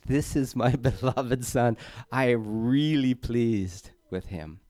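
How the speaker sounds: slow, lightly voiced proud heavenly father, with a laugh; a hint of a fond father calling from the sky. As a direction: announce your pleasure to the crowd, a touch grand and slow. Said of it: "to have a voice from heaven say to your friends".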